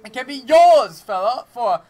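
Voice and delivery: loud hammed-up sales pitch; carnival barker. Cannon clown sales pitch.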